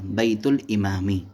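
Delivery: इमामी ending in "i" with no n; single kasra. Shown as a demonstration. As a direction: end इमामी on a plain i vowel after बैतुल. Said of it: "one कसरा आएगा".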